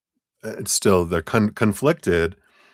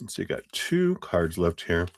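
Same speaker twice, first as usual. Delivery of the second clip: chewing a cough drop while talking; mouth full. Real, not acted. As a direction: talk through a crunchy mouthful. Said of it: "Sorry, I'm crunching my".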